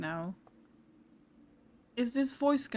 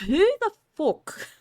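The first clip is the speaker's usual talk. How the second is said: startled outburst; 9 semitones higher, 6 dB louder than usual. Real, not acted. Startled by unknown voice again.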